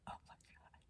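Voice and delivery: barely audible amazement; awed whisper. Real, not acted. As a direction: breathe it out in stunned wonder. More birds keep appearing.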